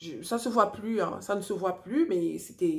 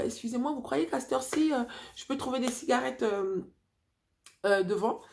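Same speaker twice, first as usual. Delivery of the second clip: talking to herself like a madwoman; 3 semitones higher than usual. Retold or imitated. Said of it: "à parler toute seule, en, comme une petite folle".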